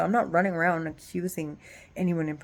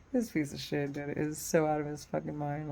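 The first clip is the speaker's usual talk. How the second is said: soft, lower muttered thought; inner thought; 3 semitones lower, 8 dB quieter than usual. Retold or imitated. Woman voicing her private thoughts about him, softly. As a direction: say it under your breath to yourself. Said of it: "I'm thinking to myself".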